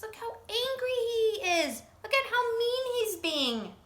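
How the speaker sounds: mock distress. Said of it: "narrator reacts".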